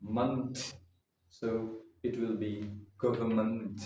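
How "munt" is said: munt with a short "uh" vowel; the ment suffix said as "munt"; ending "munt". Shown as a demonstration. Teacher models the suffix sound. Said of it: "we say munt".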